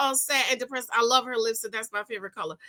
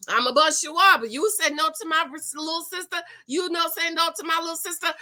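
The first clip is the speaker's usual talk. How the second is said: mock threat; 3 semitones higher than usual.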